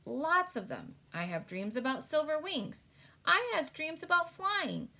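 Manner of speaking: a hint of a gentle giant, eager; big friendly giant voice. BFG's speech in read-aloud story.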